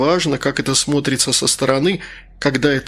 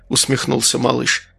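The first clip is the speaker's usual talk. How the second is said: ordinary talk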